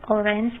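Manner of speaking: "orange" stressed on its opening syllable, OR-ange; stress on first syllable. Shown as a demonstration. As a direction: put the weight on OR in "orange". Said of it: "the stress is on the first syllable".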